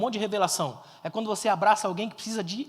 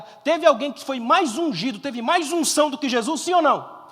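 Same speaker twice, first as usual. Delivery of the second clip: insistent questioning; 4 semitones higher, 6 dB louder than usual. Real, not acted. Presses congregation for an answer.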